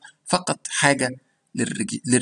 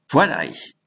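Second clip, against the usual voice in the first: whispered try; 2 semitones lower, 3 dB louder than usual. Shown as a demonstration. Teacher unsure of pronunciation, whispers the phrase first. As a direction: whisper für euch unsure of it. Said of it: "معرفش حتى إذا كنت بنطقها صح".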